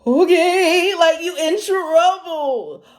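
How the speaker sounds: high, small, drawn-out voice; mock sheepish; sheepish reply. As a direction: play the scared little girl. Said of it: "I would just be like".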